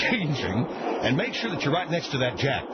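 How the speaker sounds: ordinary talk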